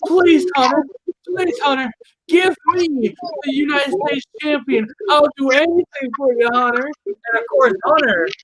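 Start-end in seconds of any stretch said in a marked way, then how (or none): 0.1-6.9 higher, whiny mock plea; mock begging. Wrestler mocking a rival begging the boss for the title. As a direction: beg like a needy kid, hammed-up. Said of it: "you begged and pleaded Hunter".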